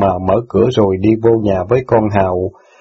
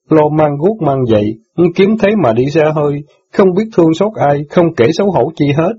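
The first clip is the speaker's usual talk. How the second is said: higher, lightly voiced teen boy, hurt and reproachful; indignant boy; 5 semitones higher than usual. Son reproaches sister for forgetting jailed father, lightly voiced. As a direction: scold her like a wounded son.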